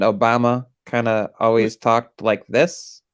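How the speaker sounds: hesitant, lightly stilted presidential delivery; understated impression, halting and measured; Barack Obama. Shown as a demonstration. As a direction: talk with deliberate little hesitations between phrases. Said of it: "hesitation in their voice when they talk".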